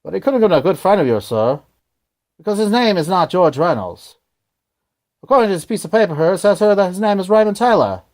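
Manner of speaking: fast, jokey fake Australian accent; quick Australian-accent gag read; hammed-up Australian accent. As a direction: rattle it off like a bad Aussie impression. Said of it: "Pretty good Australian accent, right?".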